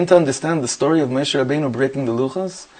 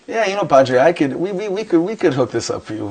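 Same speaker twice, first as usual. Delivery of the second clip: lightly voiced SoCal store clerk, pitched higher; casual Southern California sales patter, raised pitch; Southern Californian accent; 4 semitones higher than usual. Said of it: "with a heavy accent, like, this Southern Californian accent".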